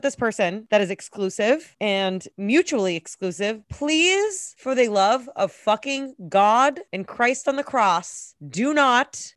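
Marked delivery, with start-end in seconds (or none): 3.7-9.3 exasperated plea. Real, not acted. Pleading rant to listeners.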